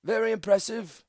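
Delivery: high, loud, formal retort; old priestess passing judgment; measured response. A narrator's reading. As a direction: acknowledge the oration with stately reserve. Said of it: "was Gorsha's measured response".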